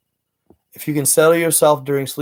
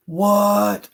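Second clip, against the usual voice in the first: high, shocked single word; stunned what; 7 semitones higher, 3 dB louder than usual. Retold or imitated. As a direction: hit it high like it floored you. Stunned by viewer's explanation.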